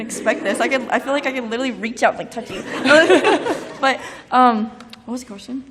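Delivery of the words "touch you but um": laughing. Real, not acted.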